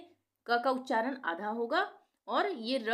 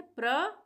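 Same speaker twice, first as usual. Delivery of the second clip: प्र punched higher and louder; emphatic syllable; 6 semitones higher, 5 dB louder, much slower than usual. Shown as a demonstration. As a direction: hit the प्र hard. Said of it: "प्र बोल के देखें". (प्र पर ज़ोर)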